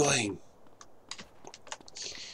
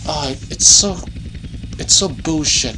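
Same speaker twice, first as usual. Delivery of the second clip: louder, heated complaint; frustrated rant; 4 semitones higher, 3 dB louder than usual. Real, not acted. Gamer ranting after losing all his weapons, angry. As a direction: vent it like the game cheated you.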